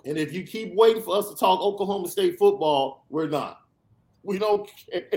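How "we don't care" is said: said through a laugh; laughing while dismissing a trolling fan. Real, not acted. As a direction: let the laugh spill into the words.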